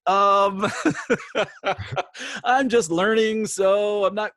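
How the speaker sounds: put-on high, loud British accent, caught out. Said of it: "same thing, British".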